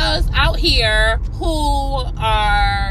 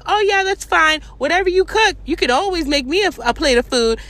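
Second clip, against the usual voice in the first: mock sweet reply; 5 semitones higher than usual. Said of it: "I was like".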